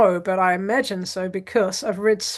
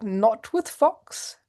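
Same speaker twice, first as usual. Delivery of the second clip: put-on reading like a child; 3 semitones higher, slower than usual. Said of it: "he was like".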